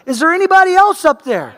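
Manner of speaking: high, loud, anxious shout upward; nervous calling out. Retold or imitated. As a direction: call up, hoping for someone else. Punchline, scared man calls up.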